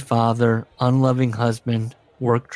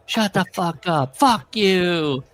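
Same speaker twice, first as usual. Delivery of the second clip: pitched up, a put-on voice swearing; mock wrestler yelling; 7 semitones higher, slower than usual. Wrestlers cursing in a segment, hammed-up angry voice. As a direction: bark it like a hammy wrestler. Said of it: "where it was going".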